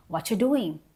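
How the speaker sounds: "What you doing" run together as one smooth, quick phrase; casual native-style reduction. Shown as a demonstration. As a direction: slur "What you doing" into "whatcha doing", falling at the end. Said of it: "in that style of native speakers".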